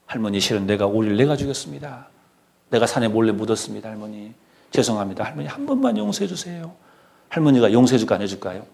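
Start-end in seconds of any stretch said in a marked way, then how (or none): 0.1-6.7 soft, contrite pleading, rising at the end; subdued mock-weepy apology; acted tearful confession. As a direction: confess to grandmother as if through tears. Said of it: "눈물 흘리면서 할머니한테 말하는 거예요".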